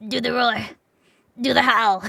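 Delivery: loud, laughing request. Real, not acted. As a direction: read it through laughter.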